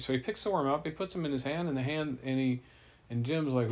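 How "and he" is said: plain reading voice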